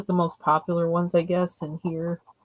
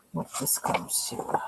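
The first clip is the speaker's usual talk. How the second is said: whisper; 8 dB quieter than usual. Real, not acted. Whispered to self.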